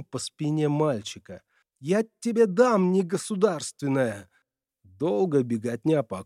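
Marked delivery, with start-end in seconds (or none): 1.8-4.3 put-on raised, angry threat at the boy; angry mother. A narrator's reading. Mother threatens her son, angry raised voice. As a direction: scold him with a belt in hand.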